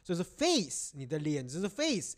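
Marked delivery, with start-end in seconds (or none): 0.2-0.9 FACE with a long 'ay'; correct pronunciation. Shown as a demonstration. Host explaining the A sound, FACE as 'fayss'. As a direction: say FACE as 'fayss', vowel like the letter A. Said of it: "它是用A的音去发".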